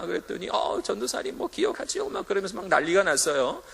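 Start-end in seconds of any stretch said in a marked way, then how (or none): 0.5-2.1 put-on excited girl's reply. Girl answers, delighted.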